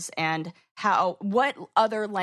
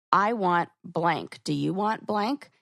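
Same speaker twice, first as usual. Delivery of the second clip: masculine direct; slower than usual. Shown as a demonstration. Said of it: "matches a more masculine energy".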